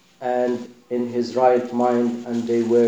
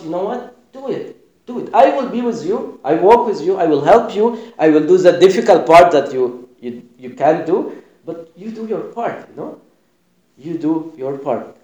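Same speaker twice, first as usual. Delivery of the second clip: a lightly voiced Jesus, higher and louder, urging them on; gentle encouragement pushing up to a raised call; Jesus encouraging; 4 semitones higher, 5 dB louder than usual. Jesus tells the believers to do their part, lightly voiced and rising.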